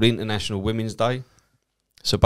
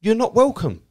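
much higher and louder, final; curt refusal; 13 semitones higher, 5 dB louder than usual. Retold or imitated. Comedian refusing the stranger, curt and louder. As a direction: slam the door on him.

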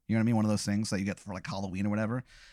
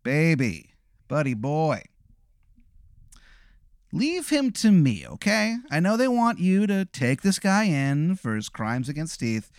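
Sugar King pitch. Acted. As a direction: sweet-talk him like a creepy clown. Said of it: "He goes".

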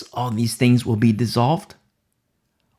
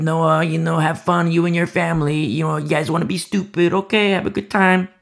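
mocking crowd; 4 semitones higher than usual. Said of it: "the people are shouting out".

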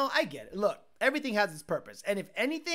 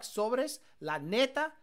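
Mexican slang. Pretend. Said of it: "What the fuck?".

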